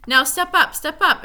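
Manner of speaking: distant voice luring them forward; recommending voice. A narrator's reading. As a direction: lure them on sweetly. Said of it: "it recommended".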